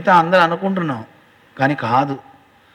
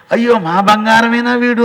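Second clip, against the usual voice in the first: surprised mother; 6 semitones higher, 4 dB louder than usual. Acted. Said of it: "అందటండి ఆవిడ".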